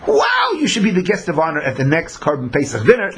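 rising into an excited near-shout of wonder; amazed admiration. Retold or imitated. Onlookers hailing the traveler who made it, building excited shouts. People marvel at the arrival.

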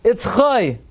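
put-on "Chai" rhyming with "boy"; oy ending. Shown as a demonstration. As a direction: say "Chai" as KHOY, high then falling. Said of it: "Whenever it appears at an asnachta".

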